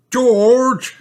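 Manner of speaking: high, loud, drawn-out complaint; cross little sister calling out; Peppa. Acted. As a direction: wail the name in protest. Peppa woken, complains to brother.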